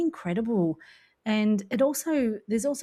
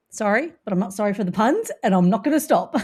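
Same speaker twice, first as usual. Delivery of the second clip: cheeky unrepentant; 4 dB louder, faster than usual. Real, not acted. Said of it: "I just can't help myself".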